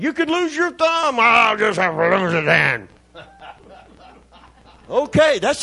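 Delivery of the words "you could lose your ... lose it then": high-pitched retort that slides down; imitating tough guy. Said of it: "he like".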